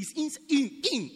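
"in" hit and repeated with weight; stress on IN. Shown as a demonstration. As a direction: lean on the word "in" every time. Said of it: "the emphasis on the word in".

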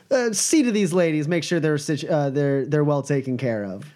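lightly voiced showy boss. Boss tells his man to see to ladies, breezy. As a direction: hand off guests with light authority.

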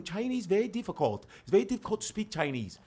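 put-on slight Chinese-accented English; a little bit of a Chinese accent; light Chinese accent. Explaining how hard the language is, light Chinese accent. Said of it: "guys that talk like that with a little bit of the accent".

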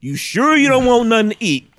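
put-on nervous boyfriend begging her to order; distraught guy on phone. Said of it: "looking so distraught".

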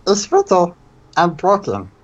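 lightly rasped alien Stitch; small gravelly cartoon alien. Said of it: "Who did the Stitch voice?".

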